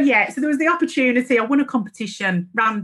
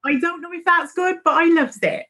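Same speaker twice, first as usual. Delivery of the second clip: playful Devon accent; 3 semitones higher than usual. Shown as a demonstration. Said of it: "the accent turns a little bit like this".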